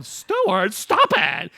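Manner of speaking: high, loud stern mother yell; scolding shout. Retold or imitated. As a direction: snap at the misbehaving child. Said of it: "they tell him".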